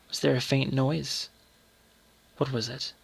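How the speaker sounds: soft, hushed storytelling; hushed suspense. A narrator's reading. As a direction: let the tension sink into a hush. Suspense, mother creeping upstairs.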